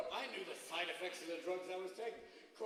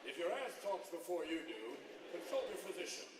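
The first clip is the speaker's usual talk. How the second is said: drug ad announcer; 3 semitones lower than usual. Acted. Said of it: "How soon before you have a drug".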